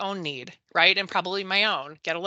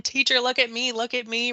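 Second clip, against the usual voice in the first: put-on child calling out; 4 semitones higher than usual. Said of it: "and he's yelling".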